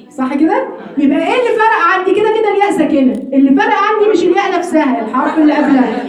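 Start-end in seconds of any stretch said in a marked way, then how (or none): none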